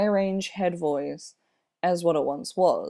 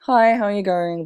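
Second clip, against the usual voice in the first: mildly raised, louder friendly hello; friendly greeting; 4 semitones higher, 6 dB louder, faster than usual. Retold or imitated. Imitating a nice person greeting people, friendly. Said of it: "nice friendly person".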